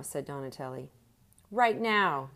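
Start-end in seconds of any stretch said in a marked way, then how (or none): 1.5-2.3 high, loud demanding shout; yelled. A narrator's reading. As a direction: bark it as he jumps off the table. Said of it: "yelled Willie".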